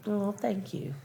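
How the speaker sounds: soft, breathy whispered gratitude; real touched whisper; whispered thanks. Real, not acted. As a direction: whisper it, moved. Touched by compliment.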